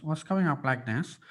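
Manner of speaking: talking through the nose; nasal voice. Shown as a demonstration. Coach demonstrating how nasal voice works, nasal. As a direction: let the voice come up through the nose. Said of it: "connected with my nose".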